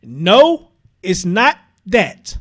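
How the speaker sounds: quoting Brittany. Retold or imitated. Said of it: "here's Brittany's response".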